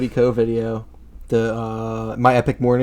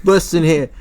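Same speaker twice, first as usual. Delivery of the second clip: louder, higher Cockney warning; mock Cockney; 5 semitones higher, 5 dB louder than usual. Joking Brit telling Alexa off, mock Cockney. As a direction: put on a scolding Cockney. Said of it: "the Cockney accents of some British people".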